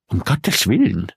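slow, lisping gentleman. A narrator's reading. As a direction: lisp the words out slowly. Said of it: "lispelte da ein Herr".

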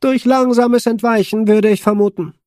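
high, loud, distorted radio voice; Olli distorted voice. A narrator's reading. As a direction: speak through a crackling, distorted comm channel. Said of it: "ließ sich Ollis verzerrte Stimme vernehmen".

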